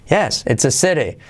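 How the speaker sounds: YES first, CITY echoing its falling tune; affirmative intonation. Shown as a demonstration. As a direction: carry "yes" onto "city". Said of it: "ese punto alto que te da el yes". ("city" entonado como el "yes")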